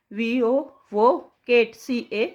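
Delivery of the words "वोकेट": slowed syllables. Shown as a demonstration. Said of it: "तोड़िए इसको भी टुकड़ों में".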